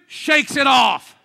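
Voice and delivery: loud, slow, high shout; preached shout. Real, not acted. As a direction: drive it home to the congregation. Preaching climax.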